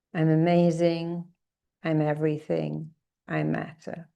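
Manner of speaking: slow, emphatic, fading at the end; affirmation lead. Shown as a demonstration. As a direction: lead the chant, then let it settle. Leads affirmations.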